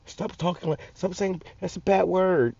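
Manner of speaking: high, soft whiny mock of a scolding man. Vlogger mocking a man who scolds his swearing, high whiny voice. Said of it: "I hate when a grown-ass man tell me".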